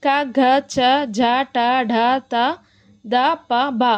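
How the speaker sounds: క చ ట త ప said lightly, with no aspiration; light unaspirated letters. Shown as a demonstration. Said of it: "తేలికగా పలుకుతున్నాము".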